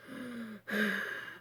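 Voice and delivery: imitating a guttural breath. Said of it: "it was like a low guttural".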